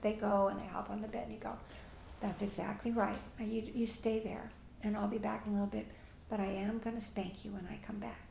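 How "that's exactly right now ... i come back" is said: very calm, low and slow. Shown as a demonstration. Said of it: "Very calm, very low and slow".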